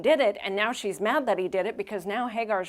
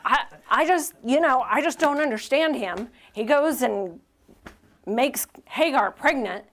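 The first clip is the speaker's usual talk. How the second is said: higher and louder, mock whiny complaining; complaining wife; 4 semitones higher, 5 dB louder than usual. Sarai complaining in the pastor's office, in a mock whiny voice. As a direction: play up the wronged wife, lightly hammed-up. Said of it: "coming into my office and being like".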